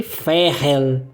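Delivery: "Ferrel" slowly, ending on a curled L; rolled final L. Shown as a demonstration. Teacher repeating the example, rolled final L. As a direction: hold the tongue up for the L of "Ferrel". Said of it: "o L vai enrolar no final".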